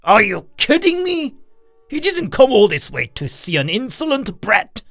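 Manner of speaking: high-pitched outraged father; angry yell. A narrator's reading. Father scolds his son before the guest, yelling. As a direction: berate the boy, pitch jumping up. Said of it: "he yelled".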